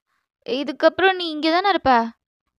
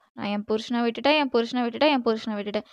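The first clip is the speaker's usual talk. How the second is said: mock whining; 3 semitones lower, 5 dB quieter, faster than usual. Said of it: "நீ அங்கவே புலம்பிட்டு இருப்ப".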